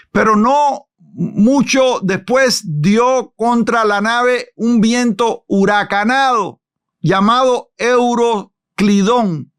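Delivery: slow, weighty reading of the verse; slow scripture reading. Acted. Preacher reads the hurricane verse to the class, slow and grave. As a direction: draw out the storm verse slowly.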